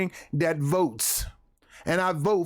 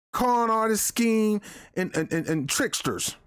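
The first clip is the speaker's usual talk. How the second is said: hint of a worked-up ranting character voice; Clayton Bigsby; 3 semitones higher than usual. Commentator mock-ranting at the officials he calls liars, Clayton Bigsby voice. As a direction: rant the list of accusations, lightly in character. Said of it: "In my Clayton Bigsby voice".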